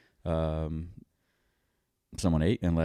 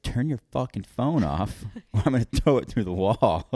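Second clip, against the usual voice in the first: mock angry rant; 4 semitones higher than usual. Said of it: "what I wanna say is".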